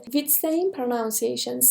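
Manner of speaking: slow, careful "With same pronunciation"; unhurried classroom dictation; slow teacher delivery. Shown as a demonstration. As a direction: read it out slowly to the class.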